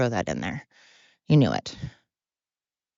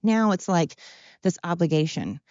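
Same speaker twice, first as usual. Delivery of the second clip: Sheldon; 4 semitones higher than usual. Retold or imitated. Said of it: "Because then he's like".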